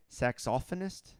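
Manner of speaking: Saxophonist said as sax-OFF-onist; British pronunciation. Retold or imitated. Querying Jamie's right way, Saxophonist as sax-OFF-onist. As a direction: question it, stressing OFF in Saxophonist. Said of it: "Jamie says it the right way".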